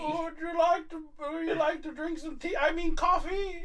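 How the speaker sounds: high, put-on voice slipping British; mock-polite offer in a botched American accent; badly faked American accent. Actor catches himself offering tea, badly faked American accent. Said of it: "he's like, the shittiest guy in that movie".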